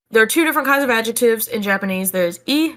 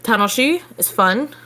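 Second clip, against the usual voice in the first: ordinary delivery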